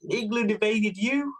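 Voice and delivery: high, drawn-out surprised question; incredulous question. Retold or imitated. Taliban commandos hear England invaded Wales, incredulous. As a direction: imitate astonishment, pitch lifted, words slowed. Commandos amazed by his claim.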